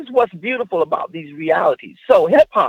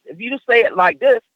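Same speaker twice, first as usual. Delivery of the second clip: higher pitch, lifting on "this"; 3 semitones higher than usual. Shown as a demonstration. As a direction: demonstrate a raised tone up to "this". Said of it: "pitch up".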